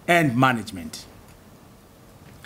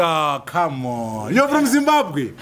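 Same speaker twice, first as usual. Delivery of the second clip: higher, laughing, needling questions; mocking skeptic; 4 semitones higher than usual. Davos delegate mocking his country, with laughter. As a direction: poke fun at him as a mocking delegate. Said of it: "They say".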